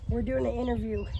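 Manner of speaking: calling out to the neighbor Miss Nancy. Real, not acted. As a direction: raise your voice so the neighbor hears.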